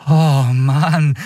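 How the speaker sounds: high, drawn-out exclamation of wonder; breathed awe. Acted. Boy feels the ship move under him, breathed awe. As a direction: let it out on a breath, amazed. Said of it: "hauchte Miko".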